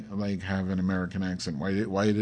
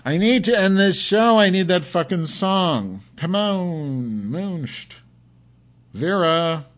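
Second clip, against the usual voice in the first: high, loud, desperate calls for the song; loud pleading; 9 semitones higher, 7 dB louder, slower than usual. Real, not acted. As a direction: yell out your need to end the show. Begging listeners for the song.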